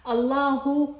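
الله said allahu, final hu; voweled h ending. Shown as a demonstration. Teacher adding vowels for students, الله ending in hu. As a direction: end الله on a clear hu. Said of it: "خلي لها حركات".

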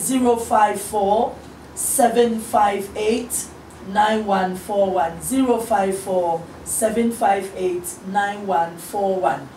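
slowly spelled out digits; slow, careful phone number read-out; slow dictation. Shown as a demonstration. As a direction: read the number slowly so they can write it down.

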